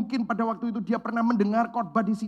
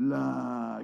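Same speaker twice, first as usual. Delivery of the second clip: Surabaya Javanese; 7 semitones lower, 3 dB quieter than usual. Retold or imitated. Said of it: "kalau Surabaya ngomong".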